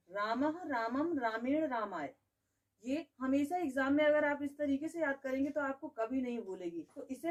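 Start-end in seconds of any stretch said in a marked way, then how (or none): 0.1-2.1 slow, even rote recitation of the forms. Shown as a demonstration. Teacher shows how to memorise, slow steady recitation. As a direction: recite each form slowly, one after another. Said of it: "तो हम पहले चार form याद करते हैं".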